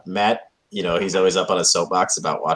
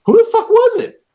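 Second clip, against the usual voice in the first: high exasperated shriek; 8 dB louder than usual. Real, not acted. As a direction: squeal it, much higher and louder.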